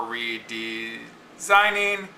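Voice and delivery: redesigning slowly, RE and DE level, jumping up after; slow, stretched redesigning with misplaced weight; wrong stress. Shown as a demonstration. Teacher showing another wrong reading, slow redesigning oddly stressed. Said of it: "or redesigning".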